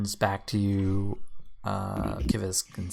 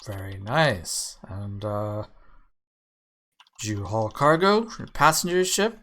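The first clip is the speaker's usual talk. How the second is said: half-orc Gorvy; 5 dB louder than usual. Acted.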